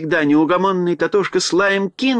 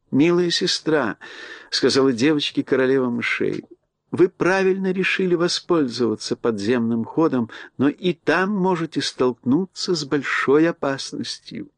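mouse queen voice. Acted. Queen advises Ellie.

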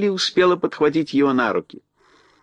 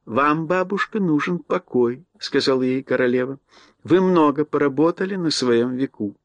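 mouse queen voice. Acted. Queen speaks to old mouse.

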